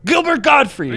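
high, loud, squawky comedian voice; Gilbert Gottfried voice. Retold or imitated. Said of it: "you even kinda sounded like him".

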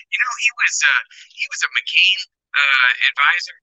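bluetooth headset mic; thin, tinny call audio; tin can sound. Real, not acted. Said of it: "You sound like you're in a tin can right now".

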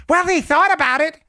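imagined opponent. Acted. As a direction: imitate an opponent's feeble objection. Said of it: "but the argument will be".

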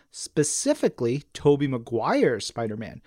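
usual speaking voice

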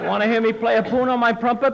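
"poon" for tune, T as P. Acted. Tommy offering to play for Costello, T as P. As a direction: swap each T for a P. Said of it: "He can't say the letter T".

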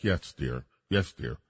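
lightly voiced, placating yes dear; bored dismissive husband. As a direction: mumble it like you're tuning her out. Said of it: "everybody's like".

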